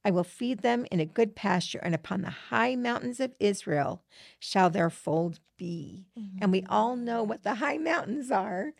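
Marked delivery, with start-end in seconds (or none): 0.1-6.1 reading scripture aloud in a measured, reverent way; quoting Ezekiel to a friend in a reverent reading voice. Acted. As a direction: read it like a passage from the pulpit.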